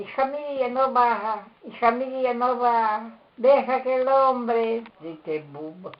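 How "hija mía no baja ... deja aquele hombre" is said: higher, pleading Spanish-speaking mother. Retold or imitated. Mother begging daughter not to go, high pleading. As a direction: beg her daughter not to go down to him. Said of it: "Minha mãe".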